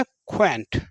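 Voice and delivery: क्वैंट as one syllable, "kw" plus "ant"; dropped vowel. Shown as a demonstration. Teacher showing students the trick, क्वैंट as one-syllable q-plus-ant. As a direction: join a q sound straight onto "ant" for क्वैंट. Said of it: "ऐसे पढ़िए".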